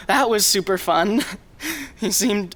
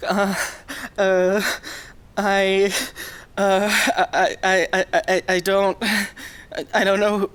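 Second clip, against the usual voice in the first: stammering, flustered. Acted. Stammering in distress.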